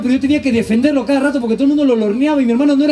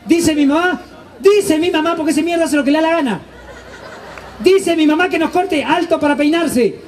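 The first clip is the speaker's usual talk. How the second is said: higher mother voice laying down the law; mock mom sending kids to the barber; mom giving orders; 3 semitones higher than usual. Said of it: "Mi mamá nos llamaba". (mamá dando órdenes)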